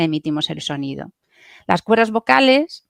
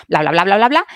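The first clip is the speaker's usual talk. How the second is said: rushed babble; 4 dB louder, faster than usual. Shown as a demonstration. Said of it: "Hablar rápido".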